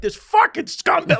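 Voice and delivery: high, drawn-out mock rant; going off. Flight attendant fuming in her seat, retold as going off. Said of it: "she was going off".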